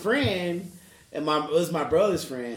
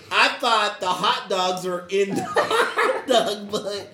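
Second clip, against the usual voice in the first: laughing while explaining; 4 semitones higher, 5 dB louder than usual. Real, not acted. Laughing while recalling mistake.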